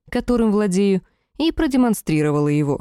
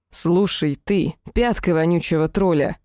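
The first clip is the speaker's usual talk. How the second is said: grave voice. Acted. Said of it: "за могильным голосом".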